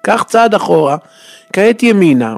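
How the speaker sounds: high, loud barking orders like a fussy guard; guard's shouted directions. Retold or imitated. Entrance guard barks directions at visitor, loud and high. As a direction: call out each step, bossy and high.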